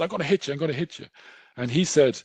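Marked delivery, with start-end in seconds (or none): 0.0-1.1 a raised, mildly acted street threat; mock aggressive threat. Stranger on the street threatens them, mildly aggressive. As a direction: play a stranger squaring up, half-acted. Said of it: "came up to us really aggressive and said".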